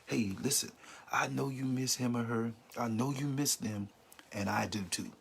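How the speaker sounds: gentle, sincere reassurance; tender comfort to someone in loss; compassionate. Shown as a demonstration. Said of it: "No, say to them".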